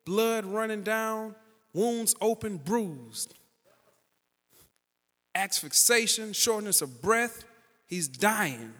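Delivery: loud, driving sermon delivery; full-force preaching. Acted. Pastor preaching healing stories to the congregation, loud fervent preaching.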